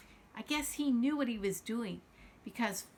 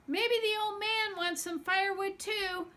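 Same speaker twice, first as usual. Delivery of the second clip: put-on raised, higher call to boys heading out; calling after them; 9 semitones higher than usual. Aunt calling after the boys leaving, raised call. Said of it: "she called after them".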